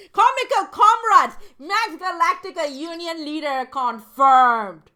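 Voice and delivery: loud, high, drawn-out announcement; mock proclamation. Player hails Max Galactica as union leader, mock-proclaiming loudly. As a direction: belt out each word like a grand headline.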